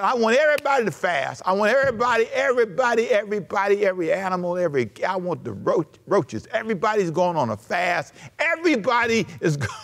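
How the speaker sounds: a king ordering the whole city to fast; king's decree. Retold or imitated. Preacher voicing the king ordering everybody to fast, emphatic.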